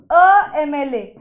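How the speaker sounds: teacher presents the test phrase; slow example. Shown as a demonstration. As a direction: spell out "अ एम एल ए" slowly. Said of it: "क्या ये अ एम एल ए ठीक है?".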